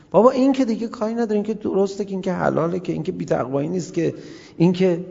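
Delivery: mock excuse-maker. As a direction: rattle off the excuses mockingly. Mimics people's excuses.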